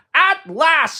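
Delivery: high, loud cry of relief; joyful shout. A narrator's reading. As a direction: shout it with joy. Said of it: "shouted Toad".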